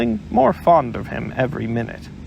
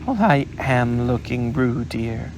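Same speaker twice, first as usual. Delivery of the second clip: severe Kanga. Acted. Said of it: "said Kanga rather severely".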